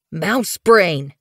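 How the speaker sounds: mildly growled rebuke; growled insult. Acted. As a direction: scold with a touch of a growl. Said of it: "Thistleclaw growled".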